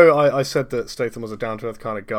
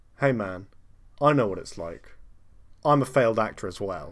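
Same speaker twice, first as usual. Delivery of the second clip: plain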